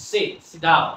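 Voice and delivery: "Sit, sit down" with the T left unreleased; silent T. Shown as a demonstration. Teacher shows Bengali learners the silent T in "Sit, sit down". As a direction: say "Sit, sit down" without sounding the T. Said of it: "উচ্চারণ করতে যাব".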